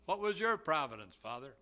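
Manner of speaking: preacher voicing the son asking his father about his providence, eager; eager question. A son stumbling over his words in eagerness. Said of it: "the son eagerly asked".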